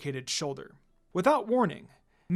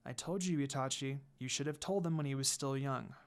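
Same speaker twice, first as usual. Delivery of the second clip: soft, low murmur to herself; quiet private thought; hushed inner thought; 5 semitones lower, 9 dB quieter than usual. Acted. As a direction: think it under the breath.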